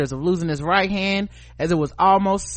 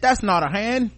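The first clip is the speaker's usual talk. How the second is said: slightly higher, rough try at Australian; mock Australian accent; 4 semitones higher than usual. Host parodies a line for co-hosts, badly faked Australian accent. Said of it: "I can't do y'all's accents".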